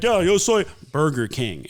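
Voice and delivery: Spanish with English "Burger King" inserted; Spanish-channel commercial. Retold or imitated. Friend imitating Spanish ad, American accent on "Burger King". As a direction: speak Spanish, then switch accent for the brand. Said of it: "they just, like, insert".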